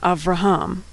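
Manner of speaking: "Avraham" with no vowel between v and r; "Avraham" with v and r together; silent sheva. Shown as a demonstration. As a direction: run the V straight into the R in "Avraham". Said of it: "right from the V sound to the R sound".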